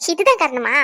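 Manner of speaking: slow, giggly question; laugh, then ask in gentle disbelief. Acted. Laughs off husband's guilt. (சிரித்தபடி கேட்கும் குரல்)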